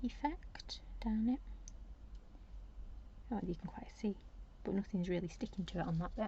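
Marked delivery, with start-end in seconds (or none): 0.0-4.2 whispering. Real, not acted. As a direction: whisper it while looking closely. Whispered while examining work.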